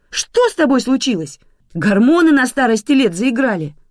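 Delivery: high, loud outraged yelling; shouting. A narrator's reading. Bedridden mother shouting at grandmother over her new husband, shrill yelling. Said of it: "Мама кричала".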